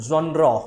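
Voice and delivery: genre with a soft zh start; soft j sound. Shown as a demonstration. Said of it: "ज सा वाला sound है". (genre में नरम "ज़्ह" ध्वनि)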